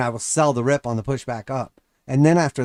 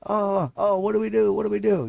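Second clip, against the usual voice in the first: high, panicked whining; mock panic; 8 semitones higher than usual. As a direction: play a flustered trader, panicking. Mocking panicked traders.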